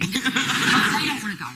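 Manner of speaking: slow, laughing through the words. Real, not acted. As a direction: chuckle the words out. Laughing retelling.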